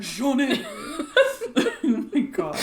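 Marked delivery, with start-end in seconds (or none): 0.0-0.7 Jaunet said the French way, zhoo-NAY; French name. Retold or imitated. Teasing sister, Jaunet said French-style, zhoo-NAY. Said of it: "She's French".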